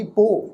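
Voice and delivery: ਪੋ as one syllable with a long o; ਸਿਹਾਰੀ silent. Shown as a demonstration. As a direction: say ਪੋ without any hi at the end. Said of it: "ਇਹਦੀ pronunciation ਹੋਏਗੀ". ('ਪੋ', ਸਿਹਾਰੀ ਬੋਲੇ ਬਿਨਾਂ)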